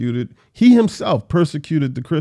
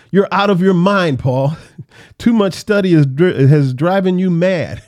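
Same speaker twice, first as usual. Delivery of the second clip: louder, scoffing shout with a laugh breaking in; loud exclamation; 4 semitones higher, 5 dB louder than usual. Acted. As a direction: exclaim it loudly, half laughing at him. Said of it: "Festus exclaimed in a loud voice".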